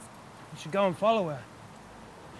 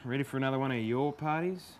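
mocking echo; 3 semitones lower, 4 dB quieter than usual. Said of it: "Yeah, mate".

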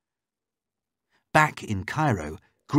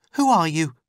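high, louder suspicious question; raised female voice, on guard; wary captive woman; 8 semitones higher, 6 dB louder than usual. Acted. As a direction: demand to know who is there. Captive challenges Layla.

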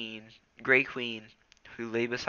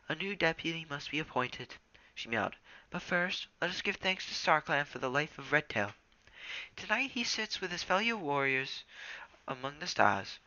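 solemn leader; 5 semitones higher, 5 dB quieter than usual. A narrator's reading.

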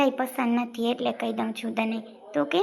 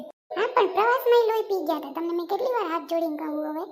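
raised, higher-pitched exasperation; exasperated complaint; 3 semitones higher, 3 dB louder than usual. Acted. Girl scolding about the trip, exasperated. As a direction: protest as if fed up with pleading. Acted quarrel over the trip.

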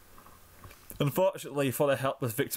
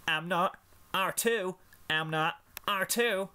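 put-on childish bickering; 7 semitones higher, slower than usual. Childish argument.

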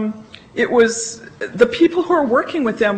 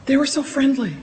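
delighted surprise; 4 semitones higher than usual. Retold or imitated. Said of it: "That surprised me".

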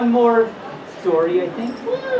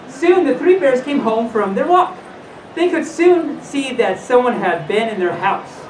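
put-on animated read-aloud to children; lilting storyteller with swooping pitch; storybook reading; 4 semitones higher than usual. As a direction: read it like a bedtime fairy tale.

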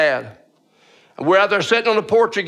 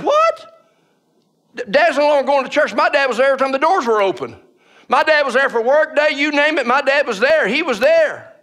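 retold disbelief; 7 semitones higher than usual. Son to mother on hearing Dad quit church, stunned disbelief. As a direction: blurt "what?" way up high, then keep protesting.

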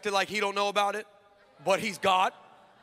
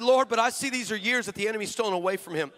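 retold earnest prayer. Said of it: "And I said".

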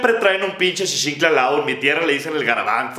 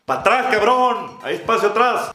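mock driver shout; 3 semitones higher than usual. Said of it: "tiene el descaro de gritar".

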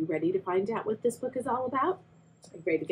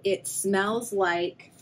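slow suspense; much slower than usual. Acted.

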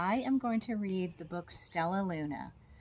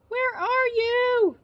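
much higher, tiny squeaking cry; squeaky baby bat; 10 dB louder, slower than usual. Acted. Lost baby bat calling for her mother, squeaky. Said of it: "Stellaluna squeaked".

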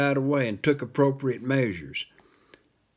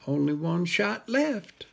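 whiny cat voice; 4 semitones higher, slower than usual. Acted. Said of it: "said the cat".

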